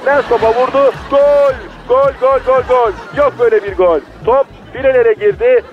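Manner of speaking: goal call, building to a shout; screaming football commentator. Acted. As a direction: yell the goal like a live commentator. (gol anında bağıran maç spikeri)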